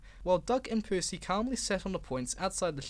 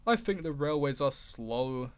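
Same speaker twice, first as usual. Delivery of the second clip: bored voice; 3 semitones lower than usual. Acted. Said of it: "in a bored voice".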